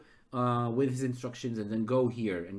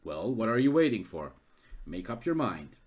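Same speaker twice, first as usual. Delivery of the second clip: impatient man; 4 semitones lower than usual. Acted. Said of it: "He was super scared before ... but now he goes like".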